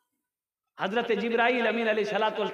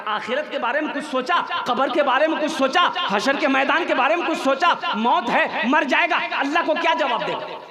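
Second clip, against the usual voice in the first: rising rhetorical questions, pressed harder; stern admonishing; 4 semitones higher, 5 dB louder than usual. Acted. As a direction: admonish with a hard stress on each question. Imam admonishes the buffalo keeper. (सख़्ती से नसीहत भरे सवाल)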